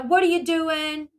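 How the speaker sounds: changed sweet-talk voice. Retold or imitated. Father chatting to daughter by phone, mildly mocked sweet-talk. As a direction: imitate a dad laying on sweetness. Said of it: "his voice changes".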